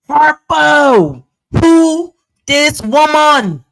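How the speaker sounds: Color Purple "Harpo, who this woman" in a put-on Jamaican accent; mock Jamaican accent. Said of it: "I wish I had a good Jamaican accent".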